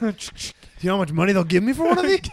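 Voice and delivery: redneck hunter voice. Acted. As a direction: play a greedy backwoods hunter. Acting redneck elf hunter.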